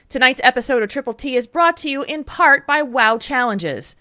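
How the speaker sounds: measured, announcer-style charity plug; sponsor read. Acted. Host telling listeners about a charity stream, sponsor read.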